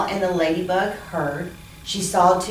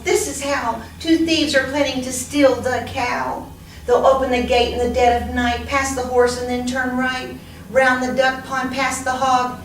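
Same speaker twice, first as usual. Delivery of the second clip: excited; 5 semitones higher than usual. Acted. Ladybug tells animals the plan.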